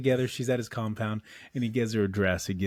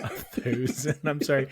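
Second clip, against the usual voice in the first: puzzled "thousand" in mimicked accent, through laughter; laughing mock confusion; slower than usual. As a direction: play baffled while cracking up. Laughing at the villain's pronunciation.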